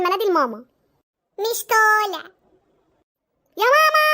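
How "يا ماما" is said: high-pitched yell; shouting for mum. Acted. Sister calling mother on her teasing brother, high shout. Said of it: "مالك بتصرخي كده ليه؟".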